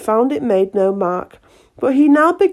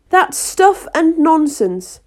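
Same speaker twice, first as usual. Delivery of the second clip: loud; 7 semitones higher, 3 dB louder, slower than usual. A narrator's reading. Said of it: "said Alice loudly".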